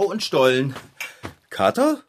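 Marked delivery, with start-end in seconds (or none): 1.5-2.0 lauter werdendes Rufen. Acted. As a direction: ruf suchend durchs Haus. Sucht und ruft den Kater. (suchendes Rufen nach dem Kater)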